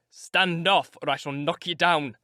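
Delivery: a loud warning threat; threatening. Acted. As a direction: warn her off, hard and loud. Heathcliff threatens Catherine.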